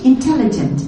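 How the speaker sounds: "intelligent" with the middle vowels reduced; English pronunciation. Shown as a demonstration. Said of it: "in English".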